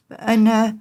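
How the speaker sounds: normal talking voice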